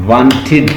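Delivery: "وانٹڈ" in two syllables, ending in "-id"; one separate "وانٹڈ" with a full "id" syllable; "id" ending demo. Shown as a demonstration. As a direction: sound out "وانٹڈ" as "want-id". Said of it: "آئیڈ sound".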